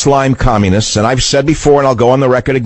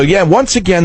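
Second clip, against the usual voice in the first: usual speaking voice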